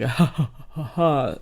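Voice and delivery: low, soft snorty huffs, mimicked; imitated snorting. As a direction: imitate a pig-masked creep snorting. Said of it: "The snorting continues".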